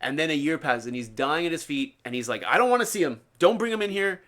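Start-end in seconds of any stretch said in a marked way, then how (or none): 2.4-4.2 retold refusal, pitched up; firm, mildly heated retold dismissal; stern refusal. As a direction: turn him away in a raised voice. Retold guru refusing a visitor.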